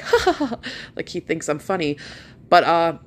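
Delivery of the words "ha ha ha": imitating doctor's laugh. Imitating the doctor laughing at her joke, high mock laugh. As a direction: parody his amused laugh. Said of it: "he's just like".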